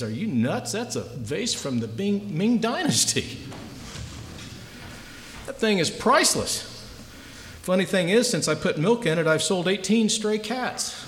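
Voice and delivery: sly seller pleased with his con; shop owner. Acted. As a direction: savour the reveal, slowing at the punchline. Shop owner reveals his trick.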